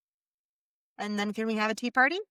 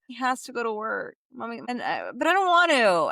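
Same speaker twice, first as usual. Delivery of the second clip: put-on whiny child complaint, rising to a loud high wail on the last words; mock whine; 4 semitones higher, 4 dB louder than usual. Mother mimicking her son's complaint at bedtime, mock whining. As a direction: whine like a kid who won't go.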